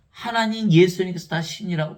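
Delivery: a pleading outburst to the listeners; exclaiming loudly. Real, not acted. Preacher protesting to the congregation, loud exclamation.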